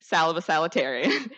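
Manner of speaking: salutasalutarian, tripping over the extra syllables of the title; friend's mispronunciation. Retold or imitated. Repeating a friend's funny mispronunciation to the graduating class, lightly mocking. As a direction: mimic a friend's fond garbled version of salutatorian. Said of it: "as a very special friend of mine would say".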